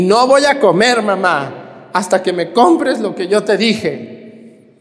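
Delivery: put-on high, slow sulky child; whiny child tantrum. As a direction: whine it like a spoiled boy. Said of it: "otro niño emberrinchado". (berrinche de niño mimado)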